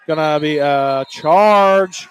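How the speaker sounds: drawn-out, loud final word; excited foul call. Real, not acted. Announcer calls the charge as it happens, excited foul call. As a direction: stretch out the call, building to a shout.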